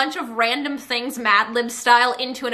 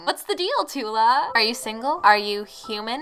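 mock flirting. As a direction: pretend to woo the brand tenderly. Mock flirting with the sponsor brand.

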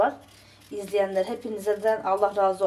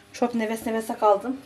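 breathless after cleaning; winded, catching her breath; slower than usual. Real, not acted. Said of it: "Sesimden de belki anlaşılıyordur".

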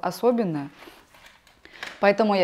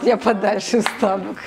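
laughing; 4 dB louder than usual. Real, not acted. Jokes the model will kiss her.

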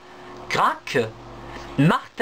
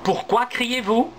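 a higher, lightly voiced question; asking; 7 semitones higher than usual. Niels calls up to the squirrels, a touch higher. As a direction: call up to the tree. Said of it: "leur demande Niels".

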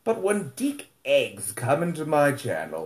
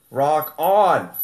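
louder rock on; sign-off; 3 semitones higher, 5 dB louder than usual. Real, not acted. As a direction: close out with a cheer. Final sign-off shout.

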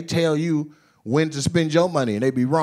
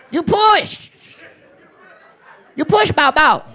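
very high, excited mock Asian dealer accent; hammed-up Asian dealer, squealed high; happy Asian dealer; 14 semitones higher, 4 dB louder than usual. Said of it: "I perfected that voice".

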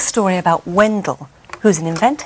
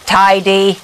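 robot voice; 7 dB louder than usual. A narrator's reading. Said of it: "said the Wendell Bot".

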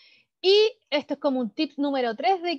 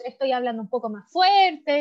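louder voice; 5 dB louder than usual. Shown as a demonstration. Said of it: "levanté más la voz".

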